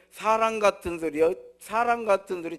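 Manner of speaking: loud mocking brush-off; scoffing retort. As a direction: toss it back with contempt. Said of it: "우리 같으면".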